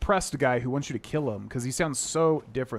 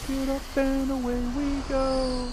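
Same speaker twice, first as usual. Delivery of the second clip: character voice; 12 semitones higher, slower than usual. Retold or imitated. Echoing game character line.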